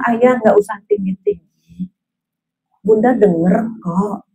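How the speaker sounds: calm, measured wifely reply; gentle calming reply. Acted. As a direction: ease the volume down, unhurried. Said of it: "Jadi kalau suami nadanya tinggi".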